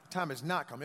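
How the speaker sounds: "not" punched within "The time has not come"; firm emphasis on the word "not"; stress on NOT. Shown as a demonstration. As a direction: lean on "not" as a model to repeat. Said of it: "Emphasize not".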